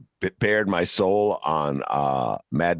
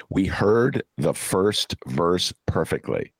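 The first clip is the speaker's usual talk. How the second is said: slow, deliberate Chicago vowels; Chicago dialect; slower than usual. Shown as a demonstration. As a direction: say it slowly in a Chicago accent. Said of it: "Perfect example of a Chicago dialect".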